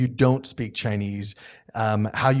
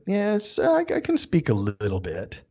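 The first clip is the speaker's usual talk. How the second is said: so-so, noncommittal; 3 semitones higher, slower than usual. Acted. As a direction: hedge it modestly, wavering. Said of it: "that's the way it feels".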